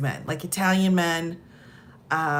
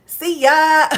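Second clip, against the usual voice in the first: quick goodbye; 7 semitones higher, 8 dB louder than usual. Retold or imitated. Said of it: "I was like".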